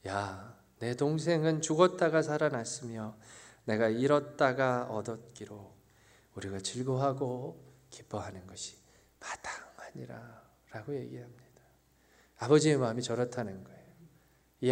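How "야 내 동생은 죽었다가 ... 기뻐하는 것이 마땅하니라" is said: gentle father. Acted. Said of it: "아버지가 대답합니다".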